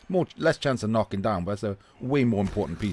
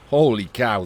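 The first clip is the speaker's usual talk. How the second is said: amazed exclamation; 5 dB louder than usual. Real, not acted. Amazed at the kick.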